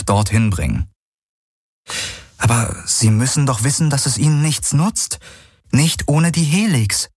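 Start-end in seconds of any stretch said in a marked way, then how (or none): 2.4-7.1 higher-pitched character voice, rising in protest; Kirai objecting, insistent. A narrator's reading. Kirai argues they cannot use the ship, mildly insistent. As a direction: press the objection, pitch climbing.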